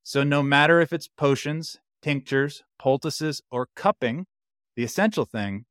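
theatrical poem recital; thespian voice. Acted. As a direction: read it like a stage actor. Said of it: "He's got that thespian voice".

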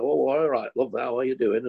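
lightly put-on Manchester student accent; casual Manchester accent. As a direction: imitate easy-going Manchester chat. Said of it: "felt free again because everybody was".

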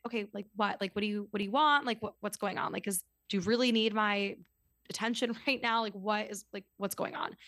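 blunt questioning, not mean; mildly impatient, matter-of-fact questions. Retold or imitated. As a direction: press bluntly for what they want. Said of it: "in a blunt".

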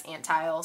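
Antheil: first syllable "an", then "tile"; Antheil pronunciation. Shown as a demonstration. Host sounding out the composer's name Antheil as AN-tile. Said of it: "this is how they said it on YouTube".

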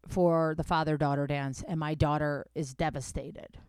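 angry father. Retold or imitated. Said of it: "He said".

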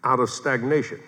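slow, measured dictation; deliberate phrasing with stretched words and pauses; dictating. Real, not acted. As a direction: spell out the point slowly for note-takers. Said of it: "Write this down".

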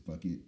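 Phuket said like "fuck it"; Phuket mispronounced with F. Shown as a demonstration. Quoting how people pronounce it, Phuket with a rude-sounding F. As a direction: say Phuket wrongly, F and short U. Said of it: "people pronounce it".

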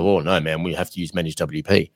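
half-hearted mock whine; mock fussy boss. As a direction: lightly mimic a controlling boss. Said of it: "And you're gonna get in the way and go".

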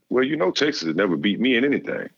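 high mock coach voice, cocky; imitating the coach boasting. Coach boasting to a recruit about beating Texas, high mock voice. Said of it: "He said".

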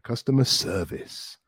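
"Customer service" with SER strongest; stress on second word. Shown as a demonstration. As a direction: model "Customer service", leaning on the start of "service". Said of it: "the stress really goes in the second word".

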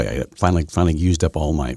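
rough just-out-of-bed voice; rough, raspy morning voice. Real, not acted. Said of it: "I sound like I've just got up".

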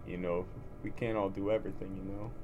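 Rocky Balboa accent. Shown as a demonstration. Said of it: "using the Rocky voice".

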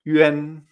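YUAN as a loud, level "yü-en"; e instead of a. Shown as a demonstration. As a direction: land YUAN on an e, held long. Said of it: "decimos una E".

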